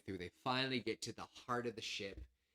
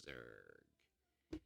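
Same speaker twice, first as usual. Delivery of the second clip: much lower, drawn-out robotic drone; slow deep machine groan; 13 semitones lower, 14 dB quieter than usual. Retold or imitated. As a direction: say it like a dumb robot. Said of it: "it goes".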